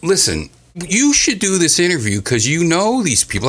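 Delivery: high-pitched retold plea to a co-host; imitating own urging. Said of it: "and I'm like".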